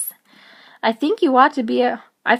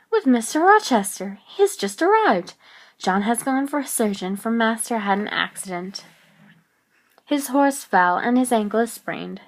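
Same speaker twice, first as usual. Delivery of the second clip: a hint of a household servant relaying news. Servant tells Jane of master's accident, lightly voiced report.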